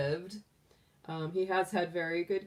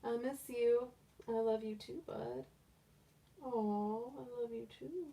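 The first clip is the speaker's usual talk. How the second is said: voicing the bunny; 5 semitones higher, 6 dB quieter than usual. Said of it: "He's like".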